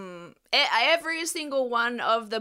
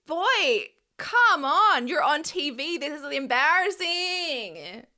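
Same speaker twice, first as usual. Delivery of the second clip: higher, pleading, fed-up scolding; exasperated scolding; 4 semitones higher than usual. Retold or imitated. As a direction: talk to him like an embarrassed big sister. Exasperated at a contestant on TV.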